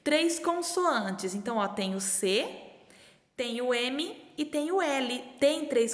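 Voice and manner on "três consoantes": slow clue reading. Shown as a demonstration. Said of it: "conferir se Camila tem".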